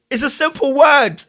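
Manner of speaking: high, loud self-mocking laugh; laughing at himself. Real, not acted. High, loud laugh at himself while fumbling a simple word. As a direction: crack up at your own blank.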